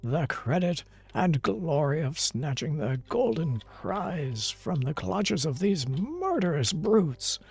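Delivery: lightly hammed-up dramatic challenge; deliberate theatrical relish on the threats; taunting story schemer. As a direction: play a scheming rival in a novel. Acts a novel's villainous dialogue.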